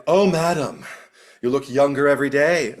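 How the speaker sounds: loud, high, dutiful compliment; prompted flattery. Retold or imitated. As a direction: gush it on cue. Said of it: "she says it 'cause she's prompted".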